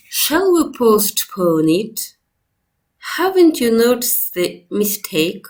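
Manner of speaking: "Shall we postpone it?" and "Haven't you noticed the mistake?" ending in a low fall; serious low fall. Shown as a demonstration. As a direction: end low and firm like a serious suggestion. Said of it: "When general questions are said with a low fall".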